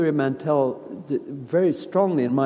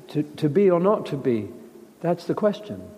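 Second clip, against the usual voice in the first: uncertain, searching delivery. Shown as a demonstration. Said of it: "really come out uncertain onto the stage".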